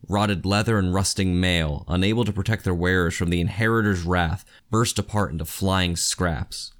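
measured, even reading of an epic battle; story narration. A narrator's reading. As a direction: read it like the audiobook narrator. Reads novel excerpt aloud.

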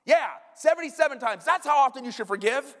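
high, loud insistence; acted, punchy reply to a shocked listener; emphatic confirmation. Jesus insists to a startled Peter.

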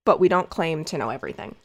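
low, quick, dry sarcastic aside; deadpan sarcasm. Real, not acted. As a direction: throw it away, dry and ironic. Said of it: "I know this may come as a surprise".

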